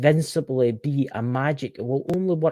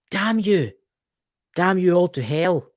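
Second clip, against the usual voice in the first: mock curse; 5 semitones higher than usual.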